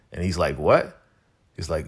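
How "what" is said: sharply rising, incredulous question; mock-stunned, swooping up at the end; disbelief. Spencer hearing Coop doesn't know him, incredulous. Acted shocked reply to lost memory.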